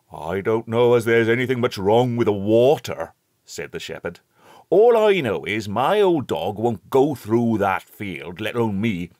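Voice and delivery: put-on a hearty old countryman calling out; old rustic shepherd. A narrator's reading. Shepherd describes his dog.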